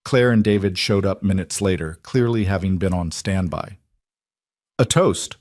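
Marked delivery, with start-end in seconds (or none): 4.8-5.4 toast. A narrator's reading. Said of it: "Marcus said, raising his glass".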